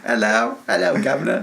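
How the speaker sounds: put-on cockney-style caricature English accent; mock British accent. Co-host joining in the actor joke, mock British accent. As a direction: put on a cartoon British greeting. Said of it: "I don't know how his accent is".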